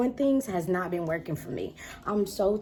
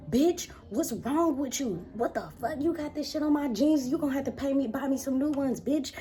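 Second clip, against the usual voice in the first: mocking the ex; 7 semitones higher than usual. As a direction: sneer at me like the furious ex. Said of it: "they was like".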